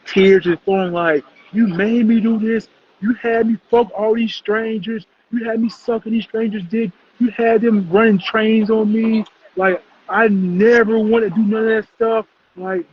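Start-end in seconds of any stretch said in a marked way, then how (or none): 1.5-12.3 mock tearful plea, held high; imitated boo-hoo crying. Podcaster acting out the bawling girl on the video, mock crying. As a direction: retell a bawling girl's protest in a raised voice. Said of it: "boo-hoo crying".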